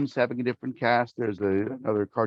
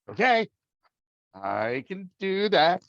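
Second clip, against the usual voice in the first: high-pitched, drawn-out acted consent; hesitant agreement; 7 semitones higher, slower than usual. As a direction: agree slowly, unsure you can manage it. Acting out his hesitant agreement.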